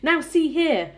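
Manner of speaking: loud, high demand for attention; authoritative shout. A narrator's reading. Police chief challenging the centipede above, shouted demand. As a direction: shout up sternly through cupped hands. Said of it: "shouted the chief of police".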